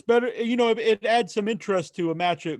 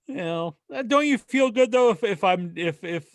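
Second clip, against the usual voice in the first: switching impression voices. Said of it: "doing an impression of me".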